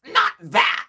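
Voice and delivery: high, loud mock yell; exasperated retort. Interviewers answer the caller back, exasperated mock yell. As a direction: blurt it out in mock dismay.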